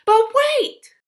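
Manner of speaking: loud and high, a sudden stop; sudden interruption. A narrator's reading. Narrator cutting off the false ending, loud and high. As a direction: jump in to halt the ending.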